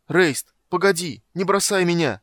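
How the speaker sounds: loud, high, pleading cry; high shouted plea not to be abandoned; desperate shout. A narrator's reading. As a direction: call after him slowly, then beg. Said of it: "закричал Карамон".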